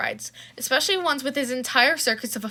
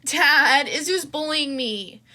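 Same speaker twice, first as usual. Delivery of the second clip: exaggerated whine; 3 semitones higher, much slower than usual. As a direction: fake a tattling wail to her father. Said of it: "an over-exaggerated cry of".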